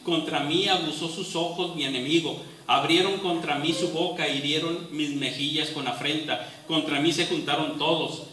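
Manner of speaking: dramatic Bible reading, building in force; impassioned scripture reading. Acted. Preacher reading Job's lament to the congregation, impassioned. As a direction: read Job's lament as if it were his own pain.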